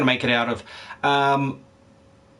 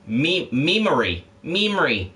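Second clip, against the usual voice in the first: "memory" in an Australian accent. Shown as a demonstration. Streamer showing how an Australian says memory, Australian accent. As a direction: say "memory" the Australian way, stress up front. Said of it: "That's how an Australian would say it".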